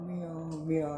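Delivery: light little meow. Shown as a demonstration. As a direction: mew like a small kitten. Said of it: "the lamb sound is meow".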